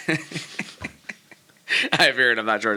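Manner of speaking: slow, drawn-out mock deadpan; mock deadpan quote. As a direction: drag it out like a sulky kid. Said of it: "is all he says".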